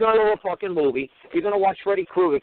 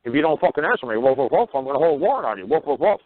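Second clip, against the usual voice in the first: lightly voiced barking dog judge; a hint of a talking dog. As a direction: act out a dog barking threats between woofs. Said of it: "now the dog is talking to me".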